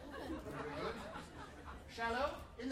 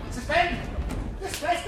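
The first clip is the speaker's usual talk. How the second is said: a higher, loud instructor cue; loud command; 7 semitones higher, 9 dB louder than usual. Real, not acted. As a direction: shout the cue high.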